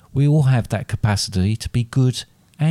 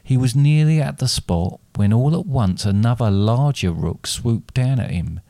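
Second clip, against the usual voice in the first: ordinary delivery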